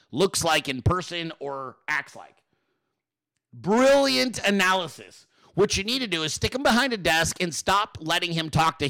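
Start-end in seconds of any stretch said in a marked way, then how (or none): 3.5-5.3 sarcastic. Real, not acted. Sarcastic reply to pundit.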